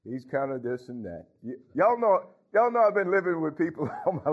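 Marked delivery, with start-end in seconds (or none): 0.0-1.3 grudging gossip. Retold or imitated. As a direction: drag it out like a half-hearted complaint. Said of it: "Some maybe would say".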